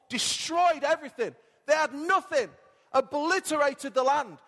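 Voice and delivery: rising sermon fervour. Acted. Preacher building over the locust devastation.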